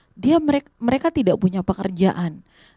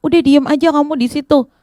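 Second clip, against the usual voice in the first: raised-pitch scolding; acted annoyance; 5 semitones higher, 4 dB louder than usual. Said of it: "ada yang marah-marah dan bilang". (menghardik kesal dengan nada naik)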